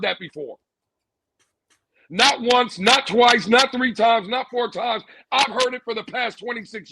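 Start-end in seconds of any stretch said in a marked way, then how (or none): 2.1-5.0 louder on each count; emphatic build. Real, not acted. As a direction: punch each count harder.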